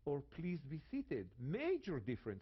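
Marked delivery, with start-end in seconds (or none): 0.2-1.3 polite invitation. Shown as a demonstration. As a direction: offer the seat gently. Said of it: "it's different if I say to a person".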